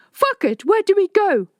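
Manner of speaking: high, loud panicked outburst; cornered and frantic, voice climbing. A narrator's reading. Cornered, pursuers in the stairwell.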